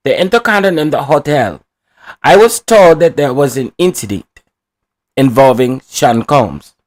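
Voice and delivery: lightly put-on Hispanic accent; a hint of a Hispanic accent. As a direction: play the witness with a little Hispanic accent. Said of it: "that's my little Hispanic voice".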